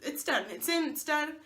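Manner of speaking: relieved. Retold or imitated. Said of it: "I was like".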